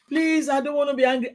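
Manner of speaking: mild mock begging; begging husband. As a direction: retell yourself pleading with him. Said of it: "I begged".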